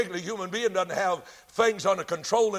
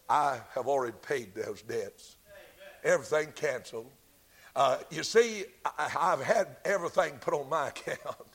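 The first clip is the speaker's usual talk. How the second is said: calm advocate; 4 semitones lower, 3 dB quieter than usual. Acted. Advocate calmly answers the accusation.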